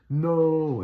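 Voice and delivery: high, loud cry of no; retold scream. Dreaming father screams at the figure dragging his daughter away, loud shout. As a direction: shout it as if your child is being taken. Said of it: "I'm screaming out loud".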